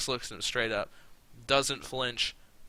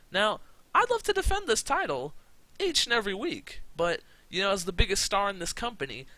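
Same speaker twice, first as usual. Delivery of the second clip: Lashley promo voice; 3 semitones higher than usual. Retold or imitated. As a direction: boast like a cocky champion cutting a promo. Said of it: "Lashley comes out for a promo".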